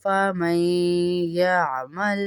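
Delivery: slow, drawn-out melodic tarteel; Quran recitation. Shown as a demonstration. Teacher reciting the verse to students, slow melodic tarteel. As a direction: chant each word slowly and evenly.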